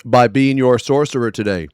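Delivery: mock-grand polite roleplay voice; lightly hammed-up, earnest fantasy greeting; a hint of a noble sorcerer; overly cheerful RP character. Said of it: "And that's how I would talk".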